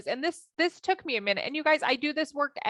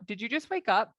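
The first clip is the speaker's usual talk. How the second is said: judgy question in an everyday pitch, after a sweet greeting; super judgy. Retold or imitated. Wife to husband just out of bed, judgy. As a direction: ask it as a judging check-up. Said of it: "Super judgy".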